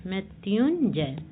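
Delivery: slow, syllable by syllable; 把मृत्युंजय一个音节一个音节慢慢念出; slow spelling-out. Shown as a demonstration. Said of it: "मृत्युंजय कैसा लिखते हैं?".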